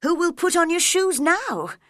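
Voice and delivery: high, loud fretting question; child worrying about far-off feet, high and loud; worried cry. Acted. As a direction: fuss over her feet, high and loud. Alice talks to her feet.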